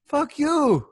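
high, sweetly naive fuck you; sweet, innocent. Retold or imitated. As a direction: say it sweetly, with no idea what it means. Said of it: "like, so sweet".

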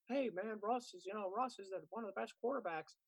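mock a clueless fan; troll voice. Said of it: "I wanna hear somebody who has a podcast with that voice".

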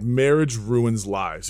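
a hint of a slow, weighty pronouncement; Arnold Schwarzenegger. Retelling a star's advice against marriage, slowly imitated. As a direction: lightly imitate him, drawing the words out. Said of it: "he is the most charismatic person ever".

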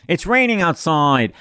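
put-on drawn-out, oddly accented teacher impersonation; Mister Couture. Teacher brushing off a test question, weird-accented imitation. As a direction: stretch it slowly in a weird accent. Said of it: "amazing imitation of Mister Couture".

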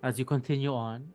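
game master narration. Acted. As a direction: paint the icy climb for the players. GM describes the mountain climb.

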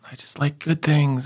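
whispered, sulky self-defence; whispered self-mockery; whispered reply. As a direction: breathe it out in a whisper. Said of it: "And I".

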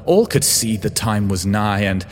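impassioned, high-pitched self-defence; vain pleading. A narrator's reading. Creator justifying the forging to his clone, pleading desperately. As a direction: plead your case, voice soaring high. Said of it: "I pleaded vainly".

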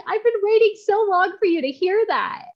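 high, choked-up retelling of a crying friend; imitating a tearful woman. Ministry leader tells her she's waited long, high teary mimicry. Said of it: "she just started bawling".

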